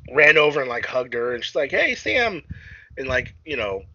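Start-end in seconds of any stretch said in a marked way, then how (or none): 1.7-2.4 put-on girl's greeting. Girl voiced in movie retelling.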